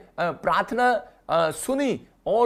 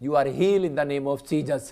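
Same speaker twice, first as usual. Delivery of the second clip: very slow, lower blessing; slow reassurance; 3 semitones lower, much slower than usual. Acted. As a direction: lay each word down like a healing promise. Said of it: "परमेश्वर का आत्मा कह रहा है".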